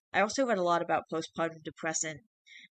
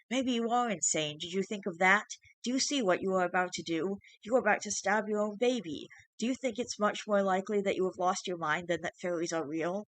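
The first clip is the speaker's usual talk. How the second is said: higher, shrill, mocking creature voice; taunting changeling; 3 semitones higher than usual. Changeling threatening the father with prison, shrill and taunting. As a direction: needle him about prison.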